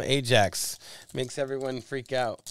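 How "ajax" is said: Ajax as AY-jacks, hard J; English pronunciation. Shown as a demonstration. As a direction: say "Ajax" with a long A and a full J. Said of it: "I just like to call 'em".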